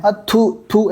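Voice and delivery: playful show of revulsion; mock spitting disgust. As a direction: act out shooing someone with repeated spits. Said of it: "ऐसे कर करके".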